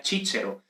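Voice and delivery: "Cícero" said CHEE-che-ro; "Cícero" with soft ch sounds, stress first; Italian ecclesiastical pronunciation. Shown as a demonstration. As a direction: say "Cícero" with Italian ch for both c's. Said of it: "la pronunciación italiana".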